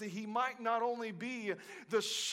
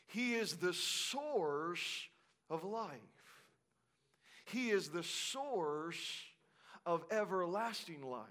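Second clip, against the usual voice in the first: slow and much softer; hushed declaration; 6 semitones lower, 6 dB quieter than usual. Real, not acted. Preacher quieting the room for emphasis. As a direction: bring it down to a near hush.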